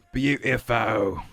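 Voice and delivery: slow, drawn-out BEAUTIFUL; exaggerated admiration. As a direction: stretch out BEAUTIFUL with hammed-up admiration. Same word repeated, exaggerated.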